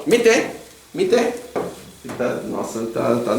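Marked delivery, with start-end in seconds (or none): 0.1-1.3 curt order with no please; blunt bare command. Shown as a demonstration. Teacher demoing a rude bare order. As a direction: bark the command twice. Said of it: "eu não chego assim e falo".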